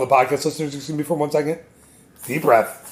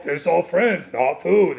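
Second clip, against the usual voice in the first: lightly voiced Australian accent; a hint of Australian shark; much slower than usual. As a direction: attempt a mild Australian accent, easygoing. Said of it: "That's my accent".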